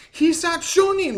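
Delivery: very high, loud, drawn-out announcement cry; slow, shouted imitation of a gadget's call; imitated driver announcement. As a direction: belt out a mock attack call. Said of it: "attack confirmed or whatever that it says".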